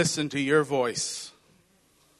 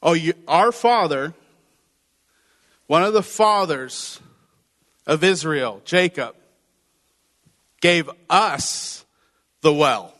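proud jab; 3 dB louder than usual. Retold or imitated. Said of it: "she switches it back to".

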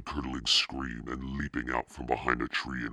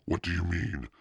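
high, faltering stammer; halting, higher-pitched frightened question; choked out; 6 semitones higher than usual. A narrator's reading. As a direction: stammer it out, alarmed. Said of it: "she managed to choke out".

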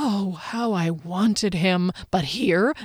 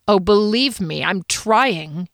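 sneer; slower than usual. Acted. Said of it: "he sneered".

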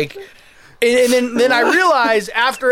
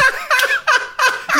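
high laugh. Real, not acted. Laughing at retold insult.

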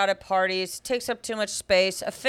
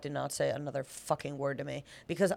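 inner panic; 4 semitones lower, 4 dB quieter, faster than usual. Retold or imitated. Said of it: "And I was like".

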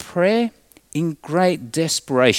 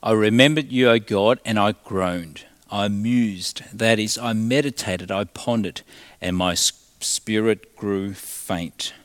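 understated weary scripture reading, lower pitch; flat, depleted; 3 semitones lower than usual. Acted. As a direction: read it as a drained, low-pitched lament. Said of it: "his feelings of flatness and depletion".

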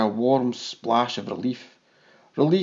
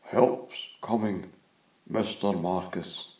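lightly drawn-out, lower character voice; slow, measured hint of a distant vizier; lightly voiced vizier; 6 semitones lower, 6 dB quieter, slower than usual. A narrator's reading. Vizier speaks over the link.

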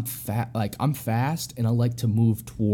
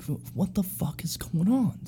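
stunned whisper, higher pitch; whispered disbelief; 7 semitones higher, 7 dB quieter than usual. Retold or imitated. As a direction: whisper it to yourself, baffled. Confused mid-fight inner thought.

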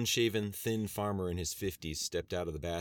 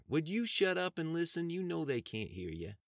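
wife scolding; 11 semitones higher than usual. Acted.

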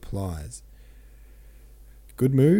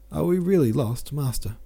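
tearful plea; 6 semitones higher than usual. Acted. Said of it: "broke into sobs".

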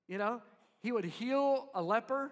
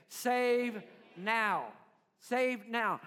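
call and response; 4 dB louder, much slower than usual. Shown as a demonstration. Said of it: "Everybody say it".

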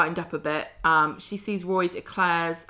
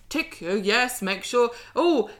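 louder, higher teacher calling down the coach; bossy trip organiser; 3 semitones higher, 5 dB louder than usual. Acted. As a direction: play a fussy trip leader marshalling pupils. Acting Daniel running a school coach trip.

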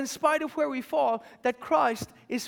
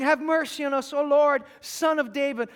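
louder pleading call; crying out more; 2 semitones higher, 5 dB louder than usual. Acted. Blind men hushed by the crowd, crying louder. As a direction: cry it out over the crowd. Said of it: "they cried out all the more".

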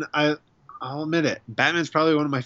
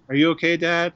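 put-on higher kid voice, lightly done; imitating worried kids; 6 semitones higher than usual. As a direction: ask like a worried child. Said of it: "my kids are like".

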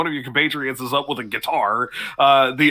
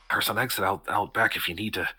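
quietly; 4 semitones lower, 6 dB quieter than usual. Acted. Bartender kid quietly tipping off the stranger, softly. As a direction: lean in and say it softly. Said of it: "lean in and quietly say".

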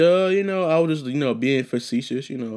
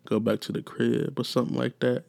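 soft, smooth mock seduction line; softer mock sweet talk to a woman; 5 dB quieter than usual. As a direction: coo it like a lady's man. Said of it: "this real sweet talking".

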